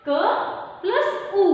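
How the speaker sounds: क प्लस ऊ said very slowly; slow, deliberate blending of sounds; slow sounding out. Shown as a demonstration. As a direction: spell out each sound slowly for children. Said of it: "क plus रू हो गया क्रू".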